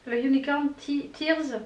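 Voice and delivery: English name in a French accent; hesitant attempt at English with a French accent. Real, not acted. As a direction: say it with a real French accent, stumbling. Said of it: "désolée pour mon accent anglais".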